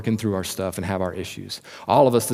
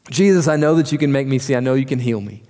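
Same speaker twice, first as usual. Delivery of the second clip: pleading cry; 3 semitones higher than usual. Retold or imitated. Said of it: "cry out at the top of his lungs".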